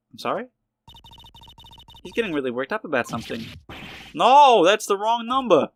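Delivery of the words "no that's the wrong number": frustrated outburst. Acted. Angry outburst over lottery number.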